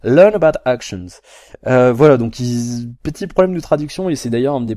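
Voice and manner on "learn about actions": put-on slow, louder English in a deliberately awful French accent; mock French accent. French vlogger reading a menu item aloud, deliberately bad French accent. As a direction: ham up the French accent on purpose. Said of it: "je fais exprès de prendre un accent de merde".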